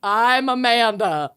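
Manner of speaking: slow mock Minnesotan intro; drawn-out Minnesota vowels; Minnesotan accent. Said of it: "worst Minnesotan accents".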